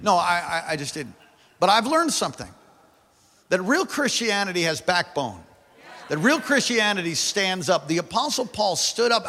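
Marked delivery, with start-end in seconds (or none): 1.6-9.2 raised-pitch, emphatic preacher; preaching. Real, not acted. Pastor declaring real Christianity has backbone, preaching. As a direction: drive it home to the congregation.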